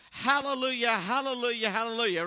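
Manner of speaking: a joyful, loud hallelujah three times; lively group praise, loud but not a scream; loud and excited. Shown as a demonstration. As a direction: call it out with excitement. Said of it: "say it loudly and with excitement".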